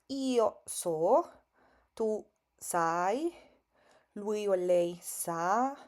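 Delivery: "io so, tu sai, lui o lei sa, noi sappiamo" spoken slowly, each form set apart; careful Italian conjugation. Shown as a demonstration. Teacher to Spanish-speaking beginners, slow clear Italian pronunciation. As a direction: spell out every form of "sapere" slowly, with clear Italian vowels. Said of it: "Vamos a ver cómo se pronuncia este verbo".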